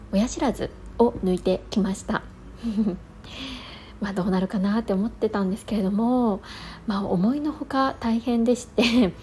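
talking with a numb mouth. Real, not acted. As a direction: speak as the anesthesia wears off. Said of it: "今ようやく麻酔が切れ始めてきて".

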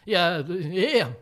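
loud, eager and laughing; begging to go eat mapo tofu; pleading to go eat. Retold or imitated. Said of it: "って".

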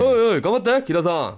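heckle-cheer the MC loudly; imitating a loud junior. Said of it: "そいつも声でかいやん".

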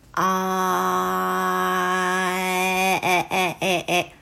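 long あー sliding into え, then short え repeated at the midway sound; gliding from a to e. Shown as a demonstration. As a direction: glide あー slowly towards え to find the in-between vowel. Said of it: "あーからえに移行する途中の音".

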